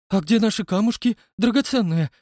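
high, loud wailing singsong; plaintive singsong. A narrator's reading. Son wailing to father about missing gems. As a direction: sing it out, miserable. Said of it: "пропел несчастным голосом".

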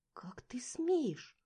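slow shocked whisper; breathless shocked whisper; gasped. A narrator's reading. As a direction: gasp it out under breath. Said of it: "охнула я".

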